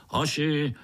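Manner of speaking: put-on old spider giving orders; lightly voiced old spider giving a command. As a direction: bark the retreat to his troop.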